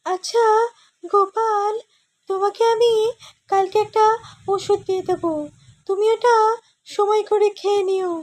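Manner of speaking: high cartoon scientist voice; a high-pitched, fussy old inventor; Gopal's scientist voice. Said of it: "গোপালের বৈজ্ঞানিকের ভয়েসটা করব".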